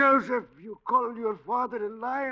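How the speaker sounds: loud, indignant reproach; outraged father. Acted. Old man rebukes son for calling him liar, indignant. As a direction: shame him for the insult.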